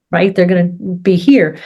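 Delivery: ordinary delivery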